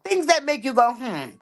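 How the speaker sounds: catchphrase. Shown as a demonstration. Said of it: "I always give them that".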